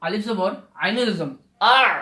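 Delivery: আইনের and আর with a squeezed throat; throat letter ain. Shown as a demonstration. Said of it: "আইনের জন্য গলা চিপি আসতেছে". (গলা চিপে হলক থেকে আইন উচ্চারণ)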